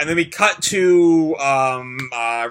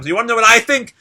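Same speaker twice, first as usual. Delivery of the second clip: higher, louder fed-up outburst; snapping; 3 semitones higher, 5 dB louder than usual. Acted. Ryuji snaps at Lucy about Lightning, higher and louder. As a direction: let the frustration burst out. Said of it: "Ryuji is snapped now".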